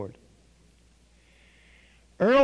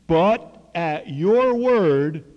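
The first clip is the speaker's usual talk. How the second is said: slow, louder, drawn-out "but at your word"; reluctant yielding; 2 semitones higher, 6 dB louder, much slower than usual. Retold or imitated. Doubting Simon yields to Jesus, slow and reluctant. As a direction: give in slowly, doubting but obeying. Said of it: "I don't think we're gonna catch any".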